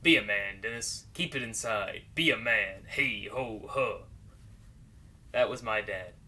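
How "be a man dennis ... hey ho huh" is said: low, punched commands to a son; acted macho order with hard-hit phrases; stern father's orders. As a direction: drill it in like a tough dad. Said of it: "we were taught to be a man".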